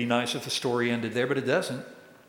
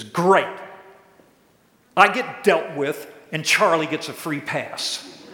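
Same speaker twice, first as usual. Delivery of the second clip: mock grievance; 2 semitones higher, 5 dB louder than usual. Complaining that Charlie gets a free pass, mock aggrieved. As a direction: grumble loudly at the unfairness, hammed-up. Acted complaint about unequal treatment.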